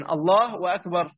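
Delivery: "الله أكبر" chanted with a stretched vowel; "أكبر" drawn long, invalidating the call; drawn-out takbir. Shown as a demonstration. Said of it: "الأذان مش هيصح بقى".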